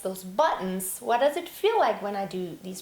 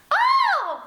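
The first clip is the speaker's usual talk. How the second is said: much higher, louder light Oh; girly head-voice oh; 8 dB louder than usual. Shown as a demonstration. Teacher demonstrating the wrong girly Oh. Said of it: "That's girly".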